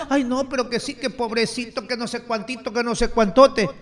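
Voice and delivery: soft, whiny mockery of complainers; hammed-up pitiful whine; mock whining. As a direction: parody their self-pitying moan, quietly. Mocking the union's excuses again.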